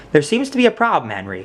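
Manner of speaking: hammed-up fake English accent, pitched high. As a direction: put on a mock posh English accent. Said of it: "she said in a fake English accent".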